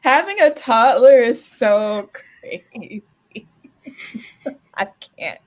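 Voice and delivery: high-pitched words through laughter; squeaky and breathless from laughing, slowed down; laughing hard. Real, not acted. Friend laughing at toddler story, squeaking through giggles.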